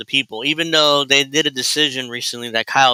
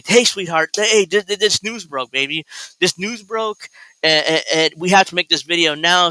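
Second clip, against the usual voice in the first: mock sweet husband; 3 semitones higher than usual. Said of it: "Kyle wants to say".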